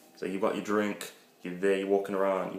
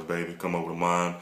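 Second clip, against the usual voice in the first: smooth lover voice. Shown as a demonstration. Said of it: "So just strictly black voice".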